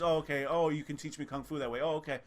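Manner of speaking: mocking a blank yes-man who just accepts everything; hammed-up clueless nodding along; mock dumb acceptance. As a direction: say each okay like a shrug of total acceptance.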